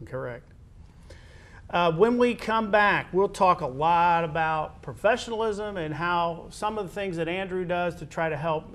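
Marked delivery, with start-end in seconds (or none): 1.7-8.7 host's break tease. Real, not acted. Host tells viewers what follows the break, announcer tease. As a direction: lift pitch and volume to tease the segment.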